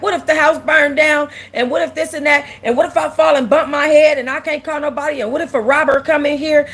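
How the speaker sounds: reenacting a fourteen-year-old's indignant letter; a hint of a bratty kid ranting; mock ranting. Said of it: "I'm just ranting and raving".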